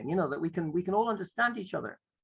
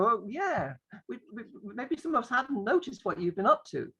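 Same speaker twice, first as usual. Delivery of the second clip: teacher in role; 5 semitones higher than usual. Acted. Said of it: "And you go".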